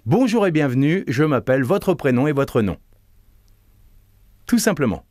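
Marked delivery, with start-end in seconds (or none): 0.1-2.8 resting on the belly, smiling. Shown as a demonstration. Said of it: "vous vous reposez sur le ventre".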